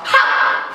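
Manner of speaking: dragon's hiss. A narrator's reading. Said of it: "w języku smoczy".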